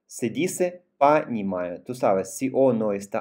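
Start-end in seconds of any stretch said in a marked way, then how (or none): 1.0-1.8 понимаю with its first O said as a clear A; unstressed O as A. Shown as a demonstration. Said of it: "se pronuncia como A".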